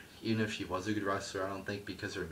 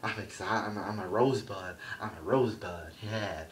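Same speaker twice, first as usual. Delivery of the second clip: lightly voiced smug entertainer; a hint of a preening showman; mocking Adam Rose's gimmick; 4 dB louder than usual.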